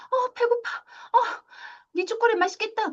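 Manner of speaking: high, teasing mom; playful mom voice. Acted. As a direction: mom greedily eyeing the chocolate, high. Mom voiced eating chocolate. (엄마가 초콜릿을 탐내며, 높고 장난스러운 목소리)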